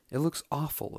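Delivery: dismayed exclaim. Acted. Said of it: "exclaimed Sally".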